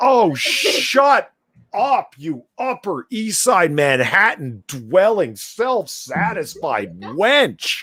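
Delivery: sudden angry rant. Reacting angrily to a critic's essay: angry outburst. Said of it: "I like angry Polly".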